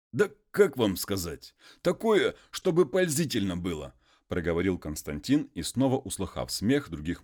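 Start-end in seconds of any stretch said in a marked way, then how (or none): 0.1-3.9 lightly raised, eager peasant asking a favour; a hint of a humble muzhik pleading. Konstantin asks the master for a letter, lightly raised peasant voice.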